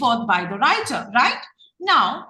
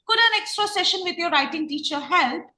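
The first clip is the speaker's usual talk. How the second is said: gentle suggestion; 6 semitones higher than usual. Shown as a demonstration. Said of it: "What am I doing?".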